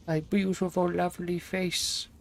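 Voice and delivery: hammed-up self-admiration, stretched out; mock vain. Streamer to chat about his webcam, mock vain.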